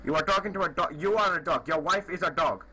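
indignant fake Indian accent; put-on Indian accent. Prankster trading insults with a stranger, put-on Indian accent. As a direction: hurl insults back in a faked Indian accent. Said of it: "I am from India".

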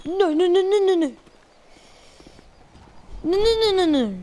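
panicked no's, loud; frantic. Real, not acted. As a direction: shout in panic. Slipping while climbing.

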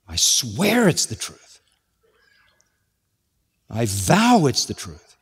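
slow, solemn oath as Peter; lightly voiced Peter swearing. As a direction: vow it slowly, as if under oath. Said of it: "with an oath".

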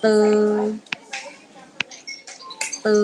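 long, level "เตอ"; demonstrating pinyin sound. Shown as a demonstration. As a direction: hold the vowel of "เตอ" on one note. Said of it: "ต่อไปค่ะลูก".

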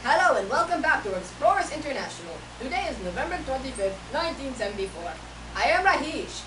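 lilting put-on Indian accent, firm opening; Indian-accent presenter voice; practised Indian accent. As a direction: introduce the show in an imitation Indian accent. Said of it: "I have to practice my accent".

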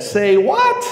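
shocked sister calling out; indignant surprise. Retold or imitated. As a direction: sister in the back shouting her disbelief. Sister blurts from the back.

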